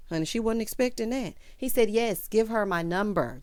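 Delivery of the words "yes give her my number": retold insistent repeat.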